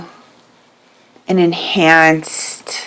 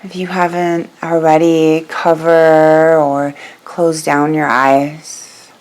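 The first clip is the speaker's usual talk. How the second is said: guided meditation. Real, not acted. Begins leading the guided meditation.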